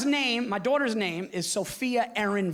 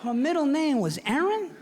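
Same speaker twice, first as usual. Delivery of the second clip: dad on the phone; 2 semitones higher than usual. Retold or imitated. Dad voiced congratulating.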